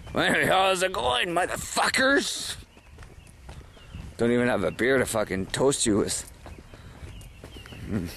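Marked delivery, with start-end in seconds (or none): 0.1-2.6 hollered greeting. Real, not acted. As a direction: holler it high, stretching the last word.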